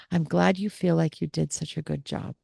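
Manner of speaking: soft, careful non-agreement; soothing reply. Shown as a demonstration. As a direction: say it gently without agreeing. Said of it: "I simply have to say something like".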